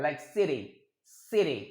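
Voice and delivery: city with a soft D-like flap; city as "siddy". Shown as a demonstration. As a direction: tap the T in city like a quick D. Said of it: "ये ड की तरह सुनाई देता है".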